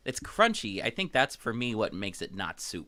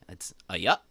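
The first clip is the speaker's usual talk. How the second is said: Maine accent; 4 semitones lower, 4 dB louder than usual. Shown as a demonstration. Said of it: "it's spelled A apostrophe".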